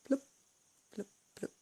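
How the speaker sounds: spoken plop of drops hitting water; little "bloop" sounds, spaced apart; imitated bloop. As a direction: imitate things dropping into water. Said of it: "you can hear the sound".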